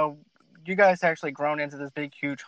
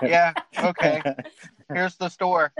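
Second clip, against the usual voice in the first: slow, unimpressed deadpan imitation; no excitement; slower than usual. Imitating Boston store staff to a customer, no excitement. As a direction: act out an indifferent store greeting. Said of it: "like, no excitement, no nothing".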